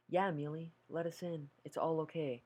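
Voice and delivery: gentle sister's voice. Acted. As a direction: coax her like a kind big sister. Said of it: "warm and gentle".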